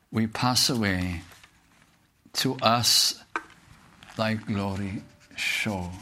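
slow, reverent hymn verse; preacher reciting a hymn to the congregation, slow and reverent; hymn recital. Acted. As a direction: read the hymn words slowly and devoutly.

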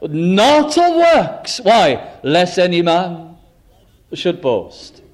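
solemn scripture reading. Acted. Scripture quoted slowly.

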